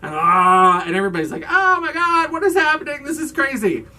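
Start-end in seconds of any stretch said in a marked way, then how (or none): 0.1-0.8 loud, brief "ah" imitating a scream; mock enraged scream. Retelling Buck's injury at the dock, mock enraged scream. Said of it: "screaming in a rage". 1.5-3.9 very high, loud hammed-up freak-out; mock panic. Imitating everybody seeing Buck's injury, mock panic.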